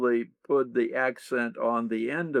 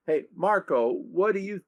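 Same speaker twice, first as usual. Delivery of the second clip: "what do you" lifted high; high accent on the opening "what do you"; stress on the first part; 7 semitones higher than usual. Shown as a demonstration. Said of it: "put the accent on the first part".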